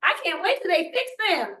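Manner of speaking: hammed-up parent sighing for school to fix the kid; mock eager parent. Parent at the teacher conference, mock eager and whiny. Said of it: "parents are like".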